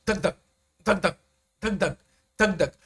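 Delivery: "dhak-dhak" softly, second beat stronger; soft heartbeat "dhak-dhak"; heartbeat rhythm. Shown as a demonstration. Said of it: "your heartbeat is like dhak-dhak".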